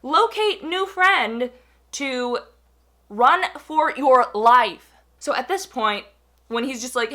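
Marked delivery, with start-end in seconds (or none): 0.0-1.5 slow, higher, robot-like mission command; mock computer voice stating a goal; robotic mission mode. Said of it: "the wheels in my mind went from". 3.1-4.9 slow, louder mock panic command; hammed-up emergency warning; mock alarm. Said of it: "the wheels in my mind went from".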